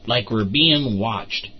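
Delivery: slow, drawn-out eerie line; slow creepy warning to the squad; spooky slow. Acted. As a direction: stretch it out like a ghost story. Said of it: "why are you talking like that".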